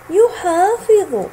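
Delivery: يحافظ stretched slowly, each sound drawn out; teacher modelling يحافظ slowly; slow spelled out. Shown as a demonstration. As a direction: draw out يحافظ slowly for the class. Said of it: "انظر كيف أمسك حرف الضاد".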